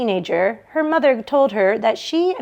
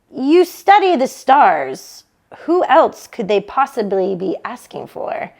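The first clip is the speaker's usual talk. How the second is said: louder, slow, emphatic start, then easing off; Barbara insisting; 3 dB louder than usual. Acted. Barbara telling Joan she's the obvious pick, insistent. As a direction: spell out the obvious to her sister.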